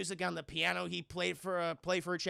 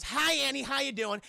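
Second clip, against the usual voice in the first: creepy cheery greeting; 6 semitones higher, 4 dB louder than usual. Retold or imitated. Possessed Ash greets Annie.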